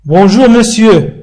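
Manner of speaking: slow, careful Bonjour, monsieur with monsieur as "mesjø"; French greeting. Shown as a demonstration. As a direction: say Bonjour, monsieur slowly, monsieur with a light "me" not "mon". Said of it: "لا نقول مون".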